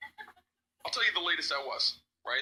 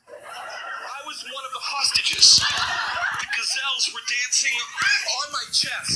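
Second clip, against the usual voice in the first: high, loud, slow wail; hammed-up desperate excuse; 7 semitones higher, 8 dB louder, much slower than usual. Late manager lying to boss, loud desperate wail. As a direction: cry it out loudly, stretching each outrageous claim. Frantic lie to excuse lateness.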